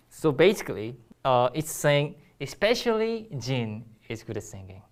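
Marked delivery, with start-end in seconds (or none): 2.4-4.8 front-weighted, ESPECIALLY and the singer's name brought out; stress on the name. Shown as a demonstration. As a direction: lean on "especially" and the name, let the rest fall away. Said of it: "used for emphasis on the front".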